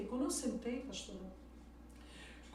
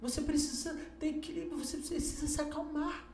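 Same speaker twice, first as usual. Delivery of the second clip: calming daughter; 4 semitones higher than usual. Retold or imitated. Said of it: "Eu tive que acalmar ela".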